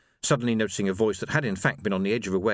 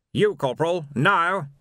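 high, loud insistent order; impatient command; 7 semitones higher, 4 dB louder than usual. A narrator's reading. Captain insists the corporal arrest him now, high and loud. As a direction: press the corporal hard.

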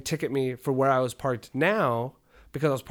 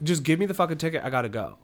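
retold yelling; 4 semitones higher than usual. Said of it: "I'm yelling at her".

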